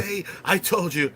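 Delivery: told-you-so. Retold or imitated. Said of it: "she's just like".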